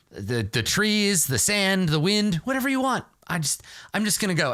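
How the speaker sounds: high, hurried sheepish apology; sheepish backpedaling. Acted. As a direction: babble excuses in a high nervous voice. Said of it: "I'm like".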